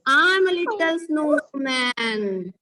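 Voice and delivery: drawn-out poem line; slow recitation. Shown as a demonstration. Teacher leads pupils into revising a poem, slow recitation. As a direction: stretch each word slowly for pupils to follow.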